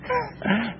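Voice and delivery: soft little laugh; brief quiet chuckle to himself; short chuckle. Real, not acted. Preacher amused by his teammate's mantra, soft chuckle.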